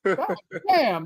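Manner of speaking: laughing through the words; can't stop giggling; real helpless laugh. Real, not acted. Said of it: "I gotta stop laughing".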